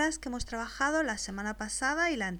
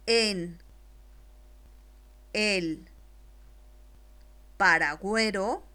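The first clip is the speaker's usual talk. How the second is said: slow dictation; slower than usual. Shown as a demonstration. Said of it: "después te la dicto".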